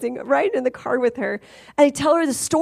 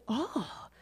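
quiet oh; 17 dB quieter than usual. Retold or imitated. Stunned parents reply quietly.

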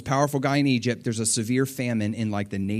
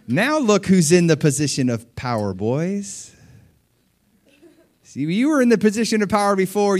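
sly taunting voice climbing much higher into a mocking laugh; gloating Joseph; 4 semitones higher than usual. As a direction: rub it in their faces, teasing, then shriek with glee. Joseph gloating over his brothers.

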